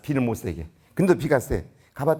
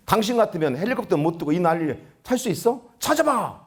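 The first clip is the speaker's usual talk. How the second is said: retold angry outburst. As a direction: imitate an indignant rescuer snapping back. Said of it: "화를 버럭버럭 내는 거예요". (버럭 화내는 말투 흉내, 끝에서 높게)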